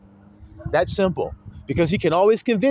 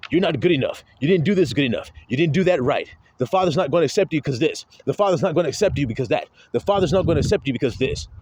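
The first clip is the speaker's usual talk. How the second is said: lightly voiced nagging accuser; 5 semitones lower, faster than usual. Voicing the accusing father.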